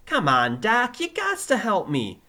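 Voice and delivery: loud, high Brooklyn plea; pleading pupil. Acted. Pupil begging his teacher for help, pleading. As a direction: plead loudly in a Brooklyn accent.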